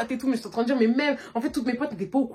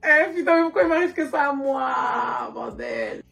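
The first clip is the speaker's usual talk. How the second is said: breaking into a shouted whisper on the last word; exasperated outcry; 4 semitones higher, slower than usual. Retold or imitated. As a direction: wail it like the universe is against you. Reliving the exasperating hotel scene.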